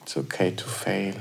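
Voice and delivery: soft whisper; whispered affirmation. Shown as a demonstration. Host whispering reassurance, soft whisper. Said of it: "receive the words".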